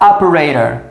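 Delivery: Operator stressed on O with the T sounding like an R; stress on first syllable. Shown as a demonstration. Teacher showing Operator with a flapped T. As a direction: Operator as O-pe-rei-ror with the stress at the start. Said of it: "Repare que a tônica está no início".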